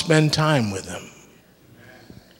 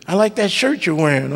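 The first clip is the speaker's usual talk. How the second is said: lightly imitating an admirer; a touch of higher-pitched flattery; gushing compliment; 4 semitones higher than usual. Preacher acting out someone praising a shirt, lightly gushing. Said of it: "they start complimenting you".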